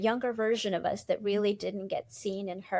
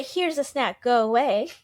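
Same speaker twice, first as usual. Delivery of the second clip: placating brush-off; 4 dB louder than usual. Retold or imitated. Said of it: "sometimes you say".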